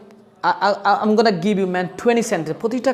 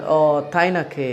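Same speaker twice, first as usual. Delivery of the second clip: slow doubtful reply; 2 semitones lower, much slower than usual. Shown as a demonstration. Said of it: "আমরা কথা শেষে বলতে".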